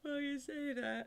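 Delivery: high, loud exclamation; exclaiming. Real, not acted. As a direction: burst out with it.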